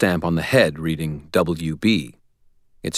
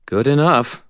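sighing; 8 semitones higher, 5 dB louder than usual. A narrator's reading. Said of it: "Murphy said with a sigh".

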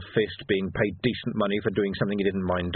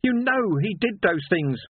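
high, louder, slow accusing yell; angry shout; 11 semitones higher, 3 dB louder, slower than usual. A narrator's reading. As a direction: hurl it at the sergeant. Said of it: "shouted Sam".

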